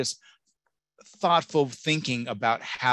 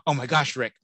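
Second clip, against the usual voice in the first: gossiping parent; 3 semitones higher than usual. Retold or imitated. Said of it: "parents, I've heard them say".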